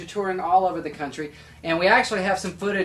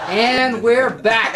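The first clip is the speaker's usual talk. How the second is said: very slow, laughing, much louder sign-back; laughing return; 6 semitones higher, 9 dB louder, much slower than usual. Real, not acted. Host comes back on air after the clip, laughing. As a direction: announce it through laughter. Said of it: "host returns from clip".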